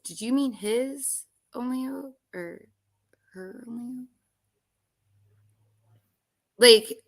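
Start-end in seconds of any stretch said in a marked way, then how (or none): 0.0-4.1 breathy teasing whisper under the breath. Real, not acted. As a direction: whisper the question as a sly aside. Teasing correction of co-host.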